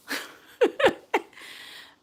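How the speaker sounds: high, loud laugh; loud burst of laughter. Real, not acted. Laughs at the hater.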